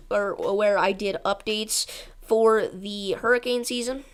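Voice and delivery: breathless after talking fast; winded, gasping between words; out of breath. Real, not acted. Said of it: "I gotta catch my breath".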